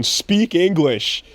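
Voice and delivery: half-hearted yell into a microphone; drawn-out pretend provocation; mock yell. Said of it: "just yell into a microphone".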